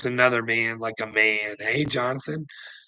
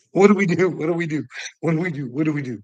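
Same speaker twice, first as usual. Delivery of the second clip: mock panic; 4 semitones higher, 5 dB louder, much faster than usual. Mock panicked imitation of Jonathan.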